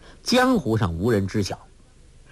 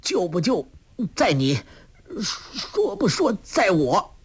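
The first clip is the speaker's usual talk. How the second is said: defiant; 8 semitones higher than usual. A narrator's reading. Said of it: "却丝毫不屈".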